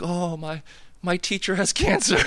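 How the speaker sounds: high-pitched imitation of a sobbing kid; mock bawling. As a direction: wail it as a hammed-up tearful fib. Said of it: "on my bed bawling".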